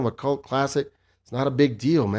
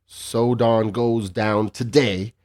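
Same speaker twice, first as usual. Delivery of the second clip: slow, measured poem recital; poem reading; slower than usual. Shown as a demonstration. Reading the poem aloud for the listeners, slow and measured. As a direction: read it out slowly like a recital. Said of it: "But you want me to read it".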